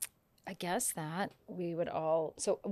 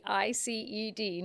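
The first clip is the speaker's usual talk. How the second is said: spelled out slowly; 2 semitones higher than usual. Shown as a demonstration. Spelling the word out.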